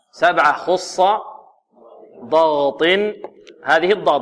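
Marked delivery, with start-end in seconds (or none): 2.2-2.8 ضغط with thick, full-mouthed ض and ط; weight each emphatic letter in ضغط; deliberate drill of ضغط; heavy letters. Shown as a demonstration.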